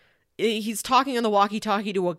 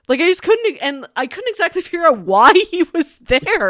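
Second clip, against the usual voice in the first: exasperated; 8 semitones higher, 7 dB louder than usual. Real, not acted. Exasperated confusion about plot.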